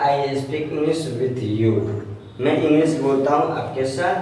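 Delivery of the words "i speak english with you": "I speak English with you" said very slowly; teacher reviewing examples slowly; slow model. Shown as a demonstration. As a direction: read it out slowly for the class. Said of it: "देखिए".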